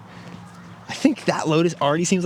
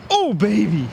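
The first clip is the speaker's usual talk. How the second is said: higher, louder delighted whoop; excited cheer; 7 semitones higher, 4 dB louder, much slower than usual. Real, not acted. Golfer cheering his own good throw, excited whoop. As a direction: cheer the throw like it landed perfectly.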